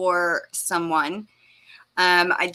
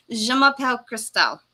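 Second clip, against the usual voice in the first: French phrase; 3 semitones higher than usual. Shown as a demonstration. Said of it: "Oh, and my name".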